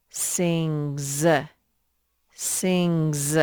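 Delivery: "sings" drawn out with a buzzing z ending. Shown as a demonstration. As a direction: say "sings" slowly as sing-zzz. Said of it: "That S actually spells the Z sound".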